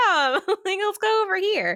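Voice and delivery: high, laughing urgent whisper-call. Retold or imitated. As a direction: laugh through a hurried aside. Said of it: "she's like".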